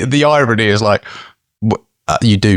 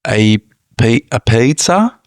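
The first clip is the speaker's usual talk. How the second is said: customer ordering; 8 semitones higher than usual. Pretend. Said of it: "I'll play the pizza".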